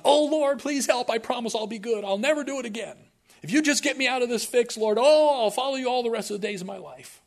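high, loud, hammed-up begging; mock desperate plea. Preacher mimicking a bargaining prayer to the Lord, mock desperate. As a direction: wail out frantic bargains in an exaggerated high voice.

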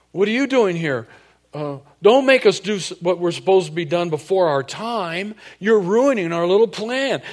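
high, loud panicked demon voices; mock a rattled demon crying out; frantic demons caught off guard; demons tripping out. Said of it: "they're already tripping out".

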